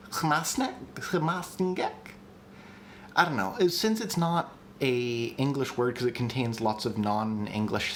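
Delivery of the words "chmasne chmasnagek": chmasnagek tried haltingly, higher, stress moved to second syllable. Shown as a demonstration. Host unsure of the shifted stress, chmasnagek tentatively stressed later. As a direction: feel out chmasnagek with later stress, questioning rise. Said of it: "put the stress on the second syllable".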